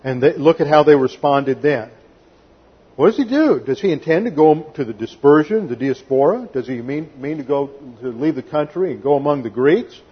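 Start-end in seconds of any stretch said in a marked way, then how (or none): 2.9-10.0 imitating scoffers; sneering sarcastic mimicry; sarcastic quote. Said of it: "Very sarcastic".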